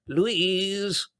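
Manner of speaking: high, loud effusive greeting; delighted cry. A narrator's reading. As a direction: cry out the name in rapture. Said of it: "she cried".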